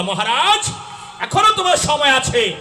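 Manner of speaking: pleading call. Acted. Voices a plea to the king.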